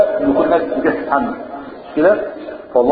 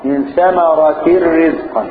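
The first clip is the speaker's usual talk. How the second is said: slow recitation; much slower than usual. Shown as a demonstration. Reciting Quran example slowly.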